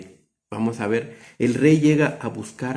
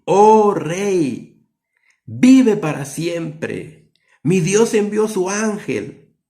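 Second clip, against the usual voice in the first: slow, louder and higher proclamation of rescue; joyful Daniel; 4 semitones higher, 5 dB louder, slower than usual. Acted. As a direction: proclaim it to the king with rejoicing. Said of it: "Con regocijo le ha de haber".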